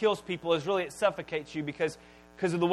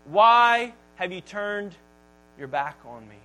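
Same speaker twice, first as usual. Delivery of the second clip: slowed, raised plea that falls away; mild mock scream; 4 dB louder than usual. Preacher reenacting Jesus screaming to God, restrained. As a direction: stretch the question, then let it sink. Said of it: "He screams out".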